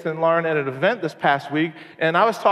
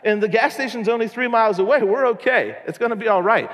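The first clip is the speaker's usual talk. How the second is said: reassuring himself; 5 semitones higher than usual. Retold or imitated. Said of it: "I'm like".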